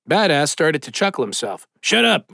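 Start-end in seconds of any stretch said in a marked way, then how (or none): 1.8-2.3 embarrassed snap. A narrator's reading.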